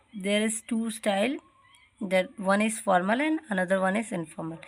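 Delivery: slow, careful reading of the text; textbook reading. Acted. Teacher slowly reads the style section to her class. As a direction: read it out word by word.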